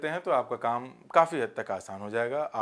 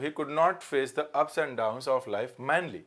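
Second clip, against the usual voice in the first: slow dictation; much slower than usual. Shown as a demonstration. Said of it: "दोनों बड़े easy examples हैं".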